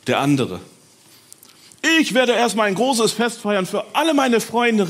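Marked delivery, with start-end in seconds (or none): 2.0-4.9 high, loud celebrating cry; joyful shout. Acted. Healed man announces a feast for friends, loud and joyful. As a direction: announce a party with glee. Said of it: "rief einer".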